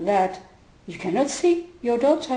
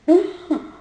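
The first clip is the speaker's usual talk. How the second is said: higher imitated gasp of shock; 7 semitones higher, 3 dB louder than usual. Teacher imitating the mother hearing the question, shocked gasp. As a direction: gasp as if shocked, about to laugh. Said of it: "And she was shocked".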